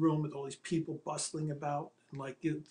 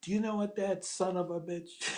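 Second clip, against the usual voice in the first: exasperated rant; 3 semitones higher than usual. Retold or imitated. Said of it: "Arthur Penn's calling me".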